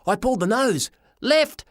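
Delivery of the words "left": high shouted word; scream. A narrator's reading. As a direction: scream it in panic. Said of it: "I screamed".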